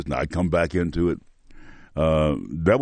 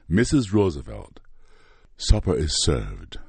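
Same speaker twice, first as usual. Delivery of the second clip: proud. Retold or imitated. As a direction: announce dinner with great pride. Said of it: "I said it with great pride".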